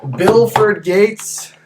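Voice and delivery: slow, dramatic name call; drawn-out hype call. Real, not acted. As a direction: stretch the name out for luck. Dramatic dice roll call.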